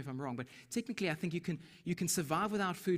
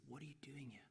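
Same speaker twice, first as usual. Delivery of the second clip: very soft, voiceless whisper; gentle whisper; 2 semitones lower, 17 dB quieter, faster than usual. Acted. God to the runaway Elijah, whispering. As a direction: drop right down to a whisper. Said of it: "he whispers, he says".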